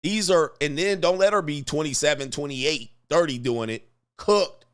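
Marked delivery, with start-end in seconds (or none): 4.2-4.6 high, loud one-word verdict; shouted catchphrase. Acted. Comedian yelling his verdict to the audience, loud. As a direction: bark it out like a final ruling. Punchline catchphrase after each red flag.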